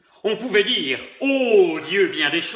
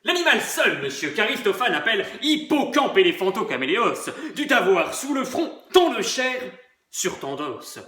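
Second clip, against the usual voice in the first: pedantic; 3 semitones higher than usual. Acted. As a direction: show off the erudition. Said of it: "Pédant". (pédant et docte)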